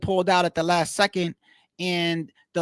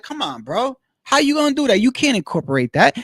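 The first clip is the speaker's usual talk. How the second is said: exasperated; 4 semitones higher, 5 dB louder than usual. Real, not acted. Heated rhetorical protest.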